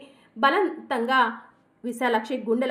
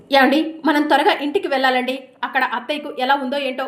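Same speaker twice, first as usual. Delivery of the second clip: louder, pressing plea to hurry home; urgent, worried call; 7 dB louder than usual. Acted. Tulasi urges her husband to hurry home, loud and worried.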